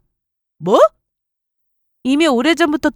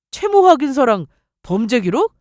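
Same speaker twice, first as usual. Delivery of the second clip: 채무 확인서랑 범죄 기록 rising into a disbelieving question; incredulous echo; 3 dB louder than usual. Acted. Boyfriend throwing her demand back at her, incredulous rise. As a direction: repeat her words back, offended and rising.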